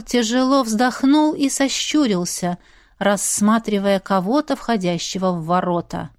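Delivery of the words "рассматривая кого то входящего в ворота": ordinary delivery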